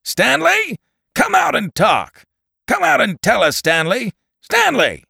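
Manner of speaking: very high, loud summons; booming shout. A narrator's reading. Radio voice orders him out to talk, booming shout. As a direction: shout down to him like a loudspeaker in the sky. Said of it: "A radio voice boomed out".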